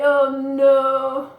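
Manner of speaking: a hint of a chirpy bird; dismayed little bird; lightly voiced bird. Steve the bird seeing Pete crash.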